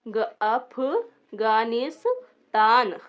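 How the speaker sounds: slow, firm read of अफगानिस्तान; syllable drill. Shown as a demonstration. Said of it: "यहाँ पे हम लिखते हैं".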